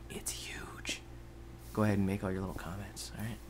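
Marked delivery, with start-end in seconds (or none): 0.1-1.0 very soft, voiceless hush; whispered answer. Pretend. Gamer answering himself about the lava, awed whisper. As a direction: answer your own shout in a whisper.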